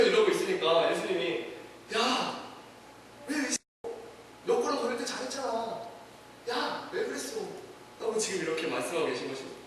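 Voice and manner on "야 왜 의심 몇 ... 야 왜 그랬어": soft, tender reproach with pauses; gentle chiding. Acted. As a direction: ask softly, as a kind teacher to a stumbling pupil. Jesus gently asks sinking Peter.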